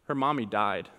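imitating a small child's matter-of-fact answer; deadpan retold child's line. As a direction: state it simply, no emotion. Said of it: "looks at me very matter-of-factly and says".

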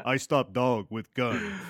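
slow, hammed-up mock Native American accent; deliberately bad Native American impersonation accent, slowly; jokey put-on Native American accent. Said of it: "embarrassing Native American impersonation".

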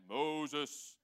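stretched-out call of a name. Acted. God calls to Moses from the burning bush, calling out. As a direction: call out the name, vowel drawn long. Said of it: "he calls out to Moses from the burning bush".

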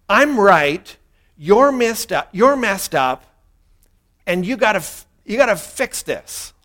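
hint of a stubborn, blaming complainer; grumbling complaint. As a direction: accuse like a self-righteous grumbler. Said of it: "what we're really saying when we're grumbling".

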